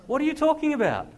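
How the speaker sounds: high, loud disbelieving shout; baffled shout. Retold or imitated. Friend on the phone, stunned, shouting in disbelief.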